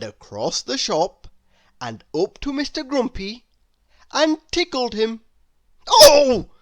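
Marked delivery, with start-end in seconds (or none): 5.9-6.5 high, loud startled squeak; squeak of alarm. Acted. Mister Grumpy squeaking in alarm when tickled. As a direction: yelp it like a man caught off guard. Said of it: "squeaked Mister Grumpy in alarm".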